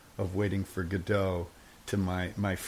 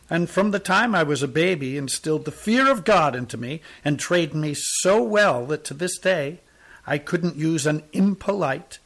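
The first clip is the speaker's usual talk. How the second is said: put-on raised, earnest old tramp telling his tale; the tramp's voice; 3 semitones higher, 5 dB louder than usual. Tramp sighing to the soldiers about his birth, raised and earnest. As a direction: plead your humble story like a pious vagabond.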